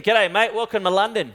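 put-on light Aussie accent, joking; a hint of a cheery Aussie greeting; Australian accent. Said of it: "an Australian accent".

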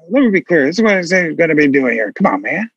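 mumbled run-on Biden, rushing the middle; a hint of Biden cramming sentences together; Biden impression. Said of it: "So Biden will say".

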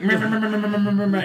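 high, loud nagging meh meh; mock a nagging wife. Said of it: "my wife's like".

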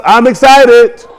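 high, drawn-out declaration of excitement; excited declaration. Shown as a demonstration. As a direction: stretch it out high, rousing the crowd. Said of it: "say, "I'm excited".

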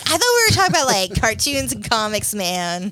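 mock listener voice. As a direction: voice a fed-up fan. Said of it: "People are like".

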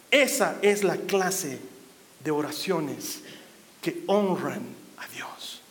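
slow low whisper. Real, not acted. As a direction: let it fall to a whisper. Reverent close.

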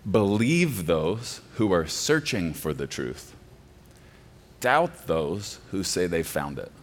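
quoted slowly, each word weighed; slow slogan quote. Shown as a demonstration. Pastor quoting the deconstructionists' phrase, slow and deliberate. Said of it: "repeated plainly after".

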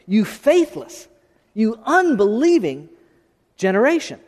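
slow, deliberate rebuke of a faithless crowd; slow, stern preacher quoting Jesus; voicing Jesus' rebuke. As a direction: drag out each word like a weary rebuke.

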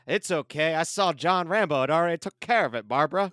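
George Bush impression. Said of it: "your George Bush impression".

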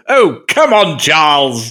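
mock frustration of a driver who just crashed; exasperated Leclerc. Host mimicking the driver who just crashed the car, exasperated. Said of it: "in that mannerism, like, you just crashed".

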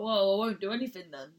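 loud petulant sulky tone; childish sulk. Retold or imitated. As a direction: sulk it out like a kid refusing to play. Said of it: "which is like a fucking child".

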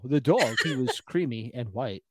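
Brooklyn "dawg", breaking into a laugh; mock Brooklyn accent. Player mimics friend's lost-dog line, Brooklyn accent. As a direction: put on Brooklyn, amused. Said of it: "Brooklyn is what that was".

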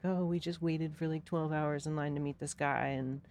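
half-hearted imitation of someone crying; retold crying. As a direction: imitate an upset friend complaining, only lightly tearful.

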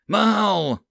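high loud roar. Acted. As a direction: roar the mage's name. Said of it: "A March roared".

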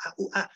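high little ouch noises; mock yelps from handling something hot; pained hot-touch yelps. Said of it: "and it's hot".

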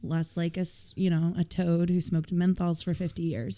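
hoarse with a cold; rough, croaky throat. Real, not acted. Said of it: "my croaky voice".

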